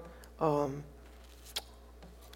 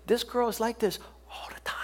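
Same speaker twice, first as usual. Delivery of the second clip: softer, whispery imitated parent; hushed confiding; 6 dB quieter than usual. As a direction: confide it under your breath. Parent confides to pastor about child.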